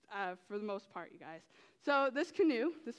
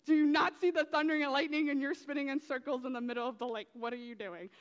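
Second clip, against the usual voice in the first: exasperated shout; 3 semitones higher, 5 dB louder than usual. Retold or imitated. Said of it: "I'm like".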